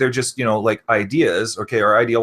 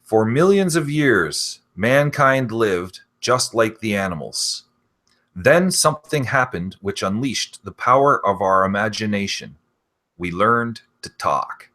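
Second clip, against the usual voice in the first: slow, even robotic synthesizer voice; imitating a speech synthesizer robot voice; Stephen Hawking robot voice. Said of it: "in his robot voice".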